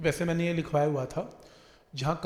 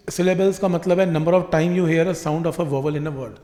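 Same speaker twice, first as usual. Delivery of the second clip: slow, loud definition; 7 dB louder, slower than usual. Shown as a demonstration. Teacher defining syllables for the class, slow and loud. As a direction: spell the definition out slowly and loudly.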